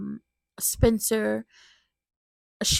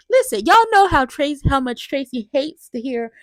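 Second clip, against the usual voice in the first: excited; 3 semitones higher, 9 dB louder than usual. Real, not acted. Gleeful reaction to a scene.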